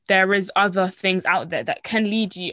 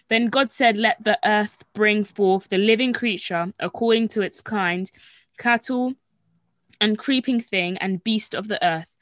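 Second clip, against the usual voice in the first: scripture reading. Acted. Reading Genesis scripture aloud.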